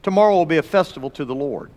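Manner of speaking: fast, brisk repetition; brisk recap; quick reread. Shown as a demonstration. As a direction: rattle it off quickly. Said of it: "Now circle that word Lord".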